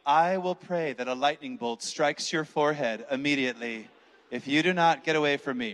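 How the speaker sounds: low, controlled threat; deliberate, restrained menace; menacing warning. Retold or imitated. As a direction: imitate an annoyed woman warning someone off. Praying woman threatens the interrupting man.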